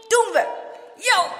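put-on high, loud eager boy; punchy, excited exclamations; eager agreement. A narrator's reading. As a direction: call it out keenly. Boys agree excitedly in story.

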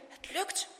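soft, breath-held half-whisper; hushed, effortful relief; straining effort. A narrator's reading. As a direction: say it while pulling free. Boy pulls foot free.

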